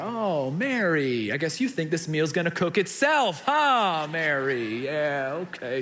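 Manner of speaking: low, dry sarcastic jab at her sister; sarcastic Martha. Acted. Martha grumbling sarcastically at Mary from the kitchen. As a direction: mutter it passive-aggressively at Mary. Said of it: "She's looking over there".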